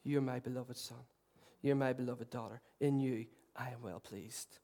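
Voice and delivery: put-on God's whisper to his child; tender Father's voice. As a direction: speak it like a loving father. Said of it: "whisper of the Father say".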